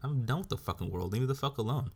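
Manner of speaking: mock fed-up blowup; fed-up rant. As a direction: snap it out like you're sick of everyone. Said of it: "I could be like".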